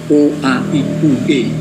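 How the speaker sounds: clearly separated vowels O, A, I, U, E; artikulasi jelas. Shown as a demonstration. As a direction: give O, A, I, U, E each its own distinct sound. (vokal O, A, I, U, E dilafalkan dengan jelas)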